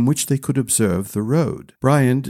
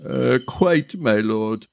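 eager retainer voice; slower than usual. Acted. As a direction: rush to smooth it over. Cowa answers.

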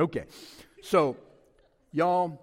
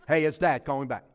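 loud first half, quick drop after; insistent dad; 2 semitones lower, 6 dB louder than usual. Acted. Dad calling his kid who won't answer, insistent. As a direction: punch out a voicemail to the kid.

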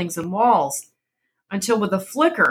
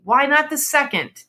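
feverish; 8 semitones higher than usual. A narrator's reading. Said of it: "said the old woman feverishly".

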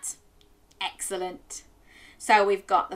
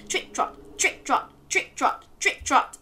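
trotting chant; 6 semitones higher than usual. Shown as a demonstration. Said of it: "can you trick trot".

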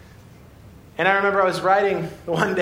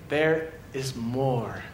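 tender God; 4 semitones lower, 4 dB quieter than usual. Acted. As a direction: lower and gentle, drawing them in. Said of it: "God this morning is saying".

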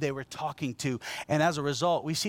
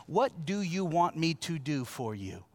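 slow, gentle question. Shown as a demonstration. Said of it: "Here's the connection".

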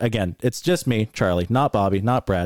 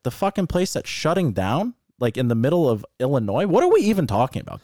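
higher-pitched, incredulous comeback, retold; scornful disbelief; 4 semitones higher than usual. Racer retelling his retort about Rockford, scornful disbelief. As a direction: act out disbelief at a feeble boast.

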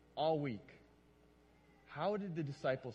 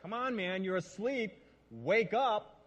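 accusatory tone; 4 semitones higher, 5 dB louder, slower than usual. Shown as a demonstration. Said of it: "We can do it in an accusatory tone".

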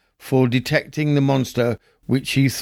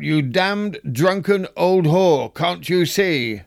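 mild mock outcry; 5 semitones higher than usual. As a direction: scold the woman at his feet, only lightly acted. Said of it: "cried out".

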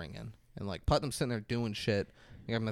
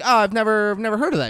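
"I've never heard of that" pitched much higher and louder, sneering; mock snooty disbelief; 9 semitones higher, 9 dB louder, faster than usual. Host parodying the agent to co-host, high sneering voice. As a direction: sneer the line like a snob. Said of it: "who the fuck talks like that".

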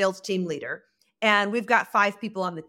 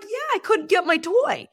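imitating a little kid; 9 semitones higher than usual. Aunt voices the young nephew.

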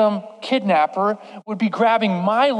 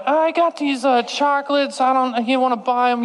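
put-on nervous kid pitch; 4 semitones higher than usual. Nervous kid selling chocolates.

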